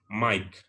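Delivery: Mike said maik with an i diphthong; correct Mike. Shown as a demonstration. Teacher models Mike after the wrong one. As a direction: Mike like English, not Indonesian mika. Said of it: "bukan Mike".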